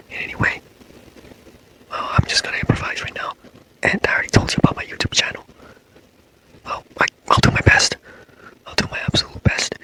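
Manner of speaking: breathy ASMR whisper, close to the mic; whisper talk. Acted. ASMR boyfriend comforting a sleepless girlfriend, whispering. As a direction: hush it like a boyfriend soothing her to sleep. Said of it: "like, whisper talk".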